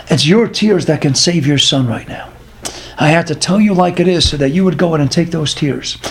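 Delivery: steady her gently with measured phrases; solemn reassurance. Retold or imitated. Father solemnly counsels the sobbing mother.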